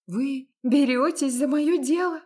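can't believe her ears; hopeful incredulous question; disbelieving. A narrator's reading. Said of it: "не веря своим ушам".

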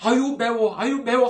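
hammed-up spicy wail; mock burning mouth. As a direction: fan your mouth and moan it out. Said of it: "하면서 눈물 좀 흘려도".

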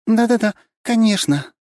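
high, loud, eager yes-yes-yes; eyelash-fluttering Katya. A narrator's reading. Katya fluttering her lashes at Bigby. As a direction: gush like a smitten girl. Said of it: "Хлопая ресницами и влюблённо глядя".

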